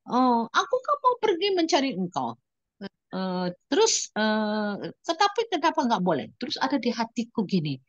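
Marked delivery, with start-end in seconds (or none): 0.1-6.3 high, pleading and tearful; tearful prayer. Retold or imitated. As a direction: ask God why, weeping. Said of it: "aku bilang sama Tuhan". (doa sambil menangis dengan nada tinggi)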